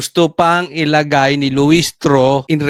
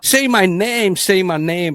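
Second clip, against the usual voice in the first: mock demanding. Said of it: "Parang ganun".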